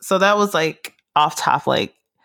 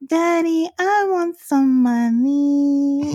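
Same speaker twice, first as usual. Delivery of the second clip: put-on much higher, slow whiny little-girl voice; imitating little daughter; 11 semitones higher, much slower than usual. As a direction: beg like a small child asking dad for cash. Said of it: "at random walk into the room and be like".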